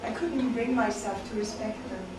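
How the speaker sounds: measured, deliberate poem delivery with pauses between phrases; spoken-word recital in even, spaced lines; poetry reading. Acted. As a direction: read it as a poem to a listening room. Reads own poems to audience.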